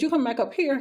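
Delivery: retold disbelief, rising at the end; incredulous question. Patient questioning orderly's return, incredulous.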